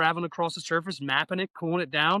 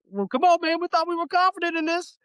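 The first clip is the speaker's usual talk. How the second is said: mock disbelief; 13 semitones higher, 3 dB louder than usual. Teasing the quiet trainees.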